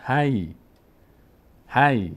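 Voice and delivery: «هی» as one closed syllable, "hay"; joined sukun syllable. Shown as a demonstration. Teacher demonstrating the silent ya, joined syllable. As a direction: glide from ha into a still y in هی. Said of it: "نیاز داره به آخرین حرکت ما قبل".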